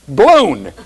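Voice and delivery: "Balloon" squeezed to "bloon"; one-syllable balloon. Shown as a demonstration. Teacher showing local accent, "Balloon" said as "bloon". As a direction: drop the uh from "Balloon". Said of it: "trying to get the "uh" in there".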